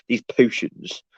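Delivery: lightly imitated odd British politician's accent; a hint of a mocking English politician accent; Boris Johnson accent. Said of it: "in his weird fucking accent".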